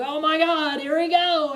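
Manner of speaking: high, loud thrilled shout; retold fanboy shriek; screaming in excitement. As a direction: yell it as the battle kicks off. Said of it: "screaming at the top of my lungs".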